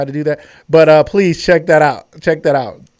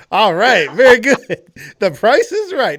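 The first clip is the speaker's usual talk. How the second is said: game show host; 5 semitones higher, slower than usual. Retold or imitated.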